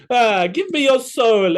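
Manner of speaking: high, slow hammy growl; Ghost Rider voice. Acted. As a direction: ham up a spooky demon. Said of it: "He would sound like".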